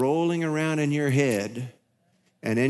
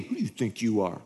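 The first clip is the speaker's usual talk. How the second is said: imagined defensive retort; 4 semitones lower than usual. Retold or imitated. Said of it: "you attach meaning".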